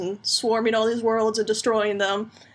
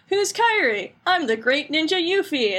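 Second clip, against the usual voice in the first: Yuffie voice; 6 semitones higher than usual. Retold or imitated. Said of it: "Kairi just goes".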